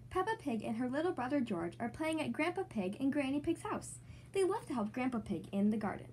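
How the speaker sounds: gentle read-aloud narration; storybook voice for young kids; story narration. Acted. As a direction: read it like a bedtime picture book. Reads picture book to kids.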